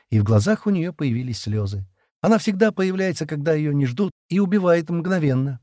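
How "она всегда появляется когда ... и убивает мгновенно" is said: high, mildly tearful voice; understated choking back of tears; tearful murmur. A narrator's reading. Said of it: "прошептала Джемма, давясь слезами". (слегка сквозь слёзы)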